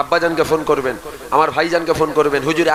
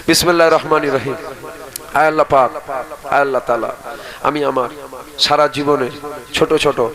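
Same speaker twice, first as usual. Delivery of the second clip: solemn call-and-repeat prayer, projected firmly; leading repentance prayer. Real, not acted. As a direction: lead the congregation phrase by phrase. Leads congregation in repentance prayer.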